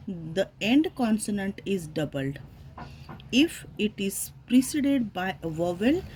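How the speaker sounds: slow, deliberate reading of a grammar rule, word by word; dictating a rule to a class at a slow pace. Shown as a demonstration. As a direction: read the rule out slowly, as if for dictation. Reads a grammar rule aloud.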